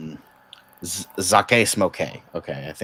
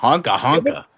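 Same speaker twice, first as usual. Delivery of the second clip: silly clown; 6 semitones higher, 5 dB louder than usual. Retold or imitated. Echoes the clown honk line.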